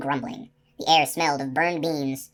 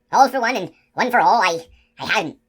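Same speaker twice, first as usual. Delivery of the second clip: higher, loud giant shout; 5 semitones higher, 5 dB louder than usual. A narrator's reading. Giant shouting the motto at the sentry, loud and higher. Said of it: "the giant shouted".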